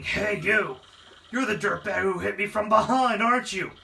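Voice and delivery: a hint of a brawling henchman; tough bully taunt. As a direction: threaten like a sore loser. Enemy boss taunts hero.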